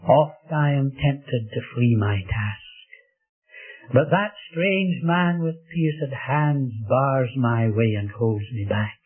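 slow, measured verse reading; slow recitation. Acted. Preacher reciting a verse about temptation to flee, slowly. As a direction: recite it with drawn-out weight.

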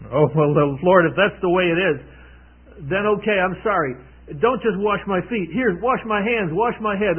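a touch of rushed eagerness, turning on a dime; eager flip-flop. Retold or imitated. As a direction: Peter asks to be washed all over. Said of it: "Peter did a complete flip-flop".

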